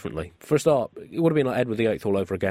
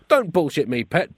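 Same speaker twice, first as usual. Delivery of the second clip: barked; 4 semitones higher, 4 dB louder than usual. Acted. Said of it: "barked the massive Tory".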